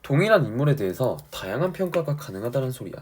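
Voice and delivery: usual speaking voice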